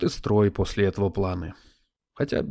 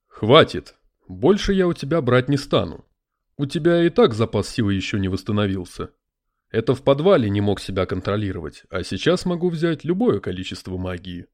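spirit voice; 4 dB louder than usual. Acted. Spirit in a crystal ball.

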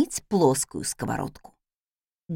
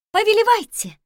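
maid voice; 12 semitones higher, 4 dB louder than usual. Acted. Maid yields the stove.

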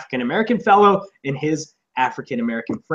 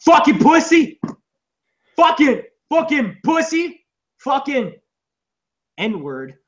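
mock taunting yell; 9 semitones higher, slower than usual. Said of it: "he's like".

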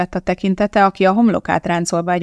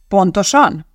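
retort; 3 semitones higher, 5 dB louder, slower than usual. Acted. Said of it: "vágta rá Donatti".

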